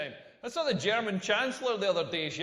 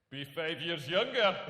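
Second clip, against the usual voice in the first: mock demand; 4 semitones lower, slower than usual. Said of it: "pumping away going like".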